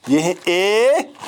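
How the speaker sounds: ए spoken very slowly and clearly; patient teacher repeating ए slowly. Shown as a demonstration. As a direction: draw out ए for the class. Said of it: "फिर से मैं repeat करूँगा".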